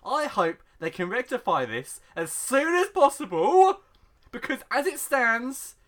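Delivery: mock-outraged read-out with big stretched emphases; dramatic post reading. Host reads a sausage surprise complaint to co-host, mock-outraged read-out. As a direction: build it into a grand complaint, punching key words.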